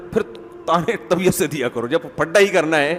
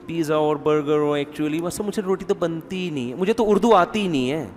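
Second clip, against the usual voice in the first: mildly affected, softer show-off; 4 dB quieter than usual. Acted. Young bride excusing her lack of roti skills, mildly showing off. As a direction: lightly play the proud excuse-maker. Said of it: "پھر اس پہ شو بھی".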